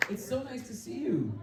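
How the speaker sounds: put-on host greeting in a New Zealand accent. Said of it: "I don't know why I jumped into a New Zealand accent".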